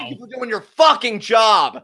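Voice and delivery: laughing sarcastic yell; sarcastic shout. Real, not acted. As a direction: yell your thanks, mocking.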